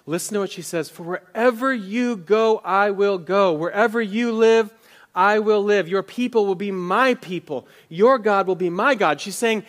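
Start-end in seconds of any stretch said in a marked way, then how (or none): 0.9-9.2 louder, higher impassioned pledge; passionate vow. Retold or imitated. Pastor voicing Ruth pledging loyalty to Naomi, impassioned. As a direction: proclaim it like an oath. Ruth's vow, preached with force.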